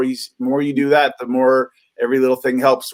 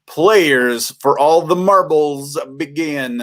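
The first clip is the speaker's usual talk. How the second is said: slow, measured call to begin; game-show announcement; slower than usual. Pretend. Referee opening the joke round for players, lightly ceremonial. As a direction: announce the round with mock gravity.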